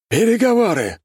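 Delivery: high, strained eldritch cry; inhuman voice. A narrator's reading. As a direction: shriek it like something not human. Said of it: "произнесла нечеловеческим голосом фигура".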